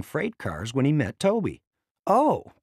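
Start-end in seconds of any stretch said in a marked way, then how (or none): 2.1-2.5 startled high Oh; surprised oh. A narrator's reading. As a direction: let it jump up in surprise. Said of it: "Toby said".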